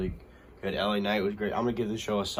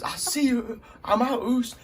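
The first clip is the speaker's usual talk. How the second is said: much higher, louder send-off; defiant parting shout; 5 dB louder than usual. Retold or imitated. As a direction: toss off the goodbye as you leave. Wrestler's parting line.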